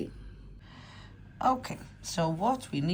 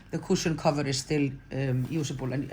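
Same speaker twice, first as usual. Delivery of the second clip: ordinary talk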